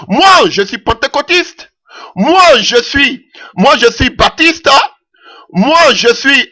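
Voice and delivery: slow, lightly voiced proud churchgoers declaring their church; mock believers. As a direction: lightly mimic each believer claiming his church, slowly. Voicing believers of each denomination. (imitation lente et légère de fidèles fiers de leur Église)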